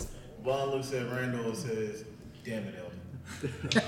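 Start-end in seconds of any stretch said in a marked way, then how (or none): 2.4-3.8 exasperated. Acted. Bond exasperated at Eldon.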